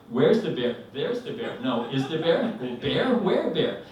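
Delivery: sing-song mock back-and-forth; lightly comic bouncing question and answer; bad rhyme. Couple trading bear questions back and forth, mock rhyme. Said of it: "like a bad Doctor Seuss rhyme".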